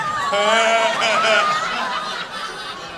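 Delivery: loud, drawn-out mock laugh; hammed-up burst of relieved laughter; acted laugh. Comic told he won't need lube, mock laughing. Acts out own reaction to dude.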